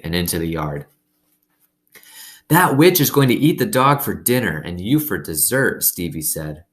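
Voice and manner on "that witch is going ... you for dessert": spooky taunt. A narrator's reading. Boy scaring her.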